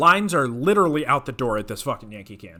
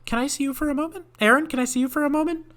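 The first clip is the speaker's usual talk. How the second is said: mock manager; 12 semitones higher, faster than usual. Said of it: "my manager comes in".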